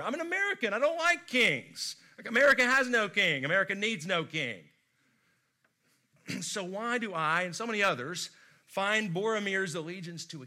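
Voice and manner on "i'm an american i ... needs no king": high, loud mock-patriotic protest; mock defiance. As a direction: play the proud American scoffing at kings. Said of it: "what's wrong with me, I wonder".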